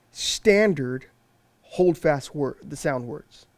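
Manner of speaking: "Standard" set first and apart, then a pause; emphatic word order. Shown as a demonstration. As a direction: put the weight on "Standard", pause, then "hold fast word". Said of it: "read it as it's actually said".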